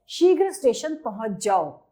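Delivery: brief halt following जाओ; slight pause after जाओ. Shown as a demonstration. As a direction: say शीघ्र station पहुंच जाओ, then stop lightly. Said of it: "हल्के से रुके तो हमने क्या लगा दिया".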